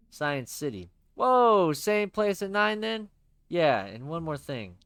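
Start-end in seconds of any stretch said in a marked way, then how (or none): 1.2-3.1 loud, bright pal voice; cheery buddy voice. Acted. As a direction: play the upbeat best friend.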